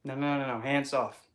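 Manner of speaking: sassy hands-off warning; firm sass. Shown as a demonstration. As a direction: set the boundary with sass. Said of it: "stand up for yourself and say".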